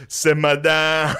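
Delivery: slow mocking laugh through the words; slow laughing heckle. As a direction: tease them, chuckling, slowly. Crowd heckling the performers.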